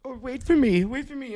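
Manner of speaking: high, calling wait for me. Retold or imitated. The woman with the cane calls after the speaker, high calling voice. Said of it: "She was like".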